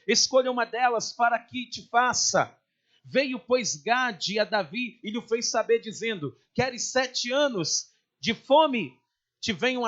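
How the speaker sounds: declaimed Bible reading, measured and emphatic; preacher reading scripture aloud. Acted. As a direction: read the verses out firmly to a congregation. Reads scripture aloud to congregation.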